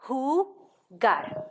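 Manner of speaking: Jugar whispered, with the h sound; whispered demo. Shown as a demonstration. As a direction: breathe out Jugar like a model word.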